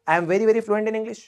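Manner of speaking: slow, soft smug boast; mock overconfidence. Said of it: "बड़ा over confidence से बोला". (ओवर confidence की धीमी नकल)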